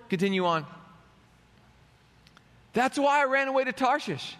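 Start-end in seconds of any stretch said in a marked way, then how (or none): 2.7-4.4 a touch of accusing complaint; mildly resentful tone, higher; indignant reading. Retold or imitated. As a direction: read it like a sulking prophet. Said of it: "I'm reading it with the tone".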